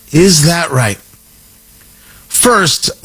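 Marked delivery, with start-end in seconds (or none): 0.1-1.0 louder sarcastic repeat. Shown as a demonstration. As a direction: punch the doubt, louder.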